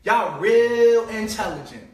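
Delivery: mock the listener with slow sarcasm; drawn-out sneering praise; sarcastic. Sarcastic repeat of insult.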